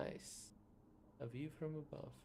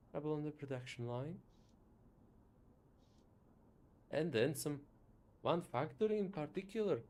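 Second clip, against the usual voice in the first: louder, boastful inventor bragging; proud inventor voice; 6 dB louder than usual. Acted. Inventor boasting about the new prosthesis, loud and proud. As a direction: boom with pride about the invention.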